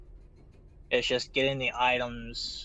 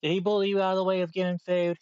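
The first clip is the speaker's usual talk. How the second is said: pet talk; 4 semitones higher, 4 dB louder, much faster than usual. Real, not acted. Talking to a pet.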